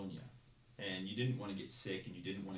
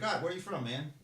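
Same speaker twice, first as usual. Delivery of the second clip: higher, louder sarcastic bark; drill instructor yell; 9 semitones higher, 6 dB louder than usual. Retold or imitated. Drill instructor demanding where the recruit is from, loud. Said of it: "He's like".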